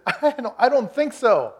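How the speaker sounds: loud mock protest of an old man; comic refusal. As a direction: ham up a stubborn old man saying no. Abraham refusing God, comic.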